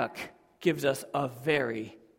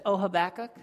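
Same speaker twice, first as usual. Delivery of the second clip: God warning the prophet, building then dropping; voicing God; 6 dB louder than usual. Preacher voicing God to Habakkuk, stern warning. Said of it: "God comes and says".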